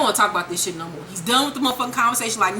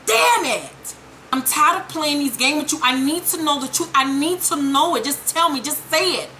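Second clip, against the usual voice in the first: put-on higher, exasperated girlfriend; mock exasperated; 4 semitones higher than usual. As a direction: demand the truth pitched up. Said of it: "she was like".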